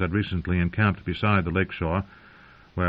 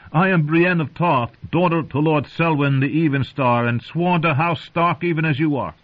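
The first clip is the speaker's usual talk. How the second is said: proud knight; 8 semitones higher, 3 dB louder than usual. Acted. Brienne declares herself.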